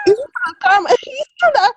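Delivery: high-pitched laugh breaking into words; helpless giggle spilling into speech. Real, not acted. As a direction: laugh through the argument, voice lifted. Cracks up while making point.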